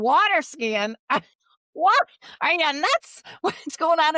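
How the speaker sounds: high, loud, laughing disbelief; incredulous disbelief. Retold or imitated. Daughter reacting to her dead dad's odd advice, high and incredulous. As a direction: laugh it off as if he's crazy.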